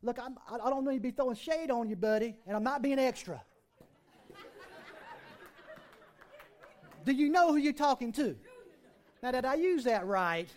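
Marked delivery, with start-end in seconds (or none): 0.0-8.4 slangy Jesus. Retold or imitated. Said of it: "Another way to put it in the vernacular".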